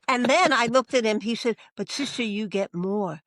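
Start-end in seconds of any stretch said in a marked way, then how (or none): 1.7-3.2 softer, tender and sincere; softly voicing the student. Student tells the sister God's love is in her, soft and tender. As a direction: let it drop soft and heartfelt.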